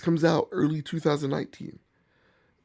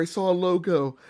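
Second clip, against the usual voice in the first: higher, louder gushing buyer voice; mock eager buyer; 5 semitones higher, 4 dB louder than usual. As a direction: gush like a dazzled shopper. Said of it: "or, you know, or".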